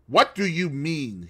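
shaky, unsteady voice. Acted. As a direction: let the voice wobble. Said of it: "in an unsteady voice".

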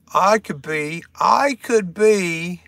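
slow, put-on mock British accent; jumbled accent attempt. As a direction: try on a shaky foreign accent. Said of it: "my accents, like, kinda".

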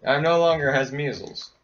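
broken-grammar doofus voice; dumb voice. Pretend. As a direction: play a simpleton. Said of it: "Such English".

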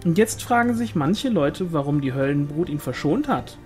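quick, lively gossip with swooping pitch; eager village gossip; gossiping sister-in-law. Acted. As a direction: dish the village rumours, voice leaping up. Pauline's gossip, voiced in narration.

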